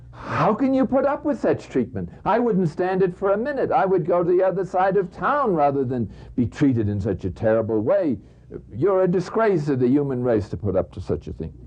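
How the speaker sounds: high-pitched indignant protest, rising to a pitch; a friend who can't believe what he just saw; heated outrage. Acted. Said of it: "getting more and more excited and heated up".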